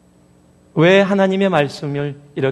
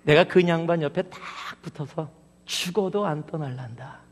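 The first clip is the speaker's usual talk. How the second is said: imitated Gyeongsang accent, dropping softer at the end; Gyeongsang dialect; 6 dB quieter than usual. Preacher sharing his favorite line, in Gyeongsang dialect. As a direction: quote it in Gyeongsang dialect, letting the ending sink quietly. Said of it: "경상도 버전 중에 가장 좋아하는 부분".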